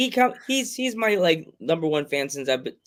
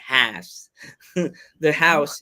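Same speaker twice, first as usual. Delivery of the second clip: Brooklyn accent; 3 dB louder, much slower than usual. Shown as a demonstration. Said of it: "my sister's Brooklyn accent's trying to come through me".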